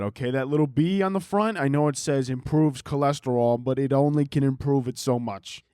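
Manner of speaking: lightly voiced, griping Brooklyn Santa; Brooklyn Santa Claus. Santa complaining about kids' demands, mock Brooklyn Santa. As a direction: grumble as a fed-up Santa with a put-on Brooklyn edge. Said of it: "is my impression of Santa Claus".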